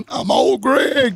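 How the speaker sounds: high, slow, creepy falsetto; Old Greg impression. Co-host answering in kind, high slow falsetto. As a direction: coo it like a creepy swamp man.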